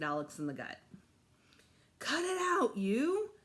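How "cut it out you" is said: indignant yell, higher; shout. Acted. Boy hit in the gut yells at the girl. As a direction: yell back after being punched.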